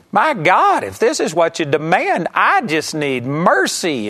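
a man at heaven's gate begging for mercy; desperate plea. Retold or imitated. Man at heaven's gate pleads with God, desperate then slowing.

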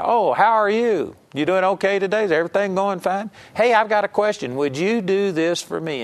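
high, sweet friendly phone chat; butter them up before asking; polite chit-chat. Retold or imitated. Caller sweet-talking a friend on the phone, high and friendly.

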